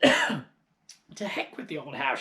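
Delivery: put-on slow, loud old hag voice; slow crone snarl. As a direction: scoff it out slowly. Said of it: "she shouted".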